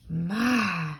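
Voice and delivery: loud, high slow admiring voice; awed Jim. Acted. Jim admiring the marble but scared of missus. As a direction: marvel at the marble, then fear.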